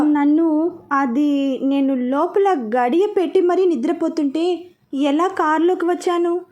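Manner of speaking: slow, puzzled asking; a touch of disbelief, drawn out slowly; mildly astonished wife, slow; surprised question. Acted. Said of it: "అని అడిగింది ఆశ్చర్యంగా".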